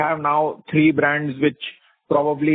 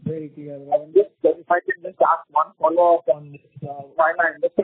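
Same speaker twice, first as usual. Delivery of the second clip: muffled, like a hand over mouth. Real, not acted. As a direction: speak through a covered mouth. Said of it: "you're sounding muffled".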